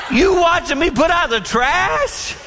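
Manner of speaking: high, slow, laughing disbelief; laughing retort. Retold or imitated. Husband laughing back at his wife, high and slow. Mocking wife's remark, laughing.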